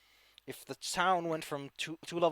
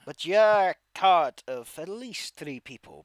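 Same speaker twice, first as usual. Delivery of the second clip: bandit leader voice; 6 dB louder than usual. Acted. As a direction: threaten them with a hint of menace. GM voices bandit threatening party.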